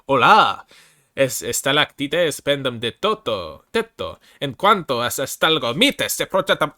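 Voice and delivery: slow, loud, hammed-up Spanish reading; mock Spanish reading. Shown as a demonstration. Streamer reads the Spanish flavor text aloud in a hammed-up accent. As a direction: sound out the Spanish words with a hammed-up flourish. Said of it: "me trying to read this in Spanish".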